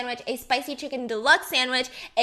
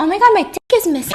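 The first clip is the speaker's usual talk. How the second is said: high, fast mock shriek; 5 semitones higher, 11 dB louder, faster than usual. Joke before the intro.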